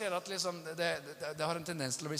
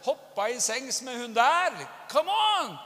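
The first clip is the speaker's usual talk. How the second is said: high, loud, exasperated outburst; indignant scolding; 8 semitones higher, 8 dB louder than usual. Acted. Spouse confronting the other over harsh words, indignant scolding. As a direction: scold in disbelief, pitch shooting up. Acted scolding in a marital quarrel.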